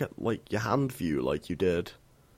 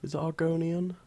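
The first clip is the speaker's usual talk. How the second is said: whispering; 8 semitones higher than usual. Real, not acted. Quiet aside while looking up.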